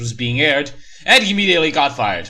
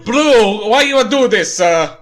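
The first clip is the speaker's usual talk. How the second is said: hammed-up plea; 8 semitones higher, 7 dB louder, slower than usual. Mac's dying plea.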